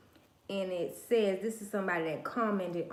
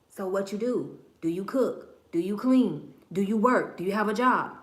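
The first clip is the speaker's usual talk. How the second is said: louder, insistent imitated questioning; mock interrogation; 5 dB louder than usual. Acts out a questioning suitor.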